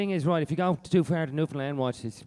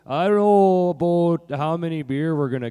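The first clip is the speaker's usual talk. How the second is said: regular Canadian accent; 6 dB louder than usual. Shown as a demonstration. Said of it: "just regular Canadian".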